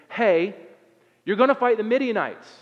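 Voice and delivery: loud, high proclamation as God; booming command. Retold or imitated. God announces the mission to Gideon, booming command. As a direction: call it out with authority.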